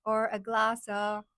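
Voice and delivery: slow, drawn-out New York accent attempt; exaggerated New York accent, very slow. Shown as a demonstration. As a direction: stretch the vowels in a loud New York accent. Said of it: "In New York, they say".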